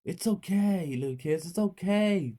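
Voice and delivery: high, soothing reassurance; lightly acted kindly policeman; comforting policeman. A narrator's reading.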